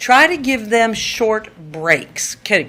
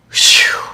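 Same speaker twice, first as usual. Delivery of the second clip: relieved exhale; 6 dB louder than usual. Shown as a demonstration. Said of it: "you're like".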